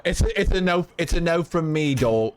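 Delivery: lightly attempted British accent. Streamer playfully delivering a verdict, tentative British accent. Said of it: "in a British accent".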